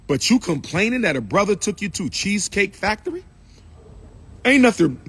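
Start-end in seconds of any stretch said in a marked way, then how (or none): 4.5-5.0 higher and louder burst of protest; indignant outburst. Real, not acted. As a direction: blurt it out in protest. Indignant outburst defending restaurant.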